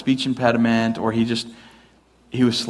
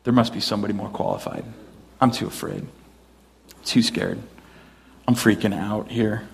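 mock fearful Moses; 2 semitones lower, 3 dB quieter than usual. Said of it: "I think, is just saying".

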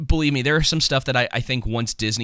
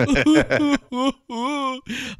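Mickey Rourke sobbing. Retold or imitated. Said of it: "clip of Mickey Rourke going like".

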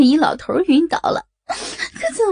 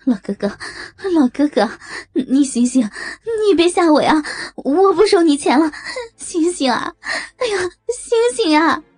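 panicked pleading; 7 semitones higher than usual. Acted. Woman begging the collapsed old man to wake up, panicked and tearful. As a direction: shake him awake, near tears.

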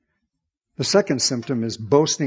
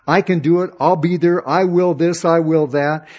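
a hint of a proud boaster, a bit louder and higher; self-sovereign boast; 3 semitones higher, 5 dB louder than usual. Preacher voicing the proud heart of man, lightly boastful. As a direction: brag each I will as if nothing can stop you. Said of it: "this whole self-sovereign thinking".

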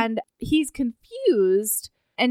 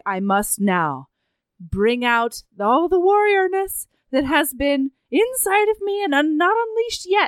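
mock warrior heroine; 4 semitones higher than usual. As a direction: puff up like a would-be warrior. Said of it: "And so then Brenna's like".

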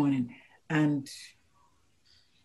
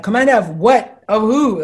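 1 incredulous retold protest; 4 semitones higher, 7 dB louder than usual. Retold panic at being made commander.

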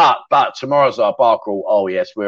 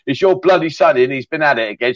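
mock copper. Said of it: "the old bill over there saying".

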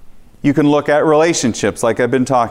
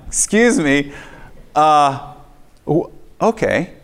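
a raised, incredulous "excuse me?" that trails into a reluctant okay; startled disbelief; 3 semitones higher, slower than usual. Retold or imitated. Telling the congregation he balked at God, surprised. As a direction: caught off guard, then give in. Startled reply to God's instruction.

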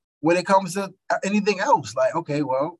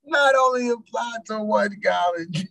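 higher, drawn-out repeat breaking into laughter; cracking up; 5 semitones higher, slower than usual. Real, not acted. Repeating the co-host's college joke, cracking up. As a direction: slowly echo it, then laugh. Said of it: "I'm crying".

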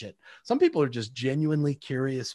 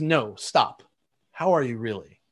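lower, unhurried, earnest question; sincere, really asking; 4 semitones lower than usual. Retold or imitated. Friend halting the small talk to ask how he really is, sincere and unhurried. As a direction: stop and truly ask.

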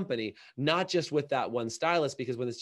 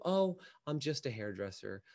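small, low, apologetic mumble; mock shame; 4 semitones lower, 7 dB quieter than usual. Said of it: "little respective shame".

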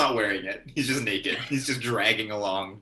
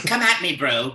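mock yell; 5 semitones higher, 7 dB louder than usual. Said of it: "and yell".

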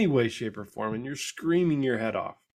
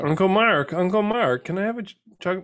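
put-on lightly higher, sweet pleading kid voice; little girl asking; 7 semitones higher than usual. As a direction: wheedle like a little girl after chocolate milk. Uncle voicing niece asking.

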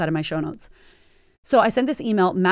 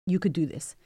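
softer, gentle reassurance; calm a frightened child; tender encouragement; 4 semitones lower, 5 dB quieter than usual. Retold or imitated. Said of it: "And I said to him".

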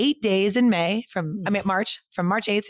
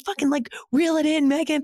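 higher-pitched mock scolding advisor voice; imitating her advisor; 9 semitones higher than usual. Quoting her advisor Robin on the phone, higher mock scolding. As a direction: play the blunt advisor telling her off, pitched up. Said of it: "she was like".

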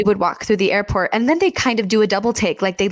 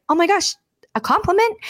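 high, delighted disbelief; mock surprise; 9 semitones higher than usual. Stranger caught off guard by a compliment, in mock surprise. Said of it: "like, surprised".

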